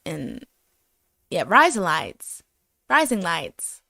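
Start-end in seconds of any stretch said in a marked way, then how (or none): 1.5-3.8 "rising lights" slowly drawn out; sounding-out demo. Shown as a demonstration. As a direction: test "rising lights" aloud, stretching the vowels. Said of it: "it sounds like you're saying".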